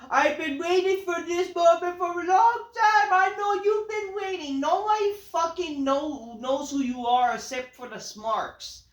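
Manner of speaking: high, loud mocking shout of a wrestler's promo; mocking Pentagon's promo. Reviewer mocks Pentagon's debut promo, high, loud shouting. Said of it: "basically Pentagon, like".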